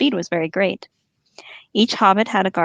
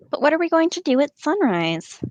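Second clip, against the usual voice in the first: higher-pitched orc voice; questioning orc underling; 8 semitones higher than usual. Acted. Northern orcs asking Ugluk about sunrise, higher-pitched underling voice.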